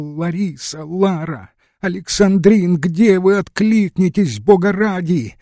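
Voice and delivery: high, loud desperate calls; frantic shouting. Acted. Glafira bursts in calling for the women, frantic shouting. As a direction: shout for them in the dark. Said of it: "закричал".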